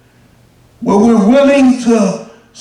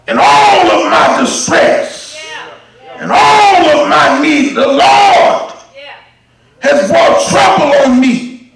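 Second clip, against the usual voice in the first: preaching; 3 semitones higher than usual. Acted. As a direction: cry it out to the church. Preaching at full force.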